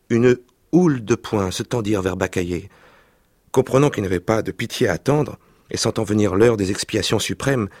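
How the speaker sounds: lively reading aloud of a French novel; story reading. Acted. Reading a childhood novel aloud to the interviewer, expressive narration. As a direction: read the scene with vivid expression.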